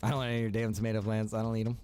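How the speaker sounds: ordinary talk, nothing marked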